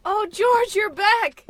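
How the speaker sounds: high, loud, delighted welcome; excited greeting. Acted. Wife welcoming George home, high and loud. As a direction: throw your arms open with your voice.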